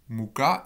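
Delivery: muka with the stress on the final -ka; end-stressed muka, the -ka brought out; stress on last syllable. Shown as a demonstration. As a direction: lean on the second syllable of muka. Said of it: "l'accent sur la dernière syllabe".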